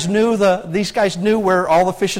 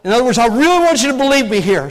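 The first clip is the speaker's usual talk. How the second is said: emphatic insistence; 3 semitones higher, 3 dB louder, faster than usual. Acted. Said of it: "ramped it up a little bit and began to cuss".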